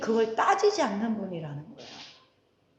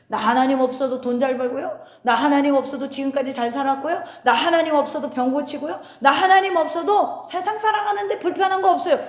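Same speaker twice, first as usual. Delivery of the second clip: building smug brag, a touch louder each time; hammed-up self-sufficient boasting; mock boastful pride; 3 dB louder than usual. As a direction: voice a proud man who needs no God. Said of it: "이게 하나님 앞에서는 교만이라고".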